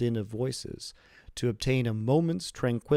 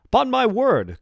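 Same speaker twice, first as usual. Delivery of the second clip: high loud exclamation; cried out; 14 semitones higher, 11 dB louder than usual. A narrator's reading. Old father marvelling at his son's quick wedding, a high loud cry. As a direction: burst out in delighted surprise. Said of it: "cried the old man".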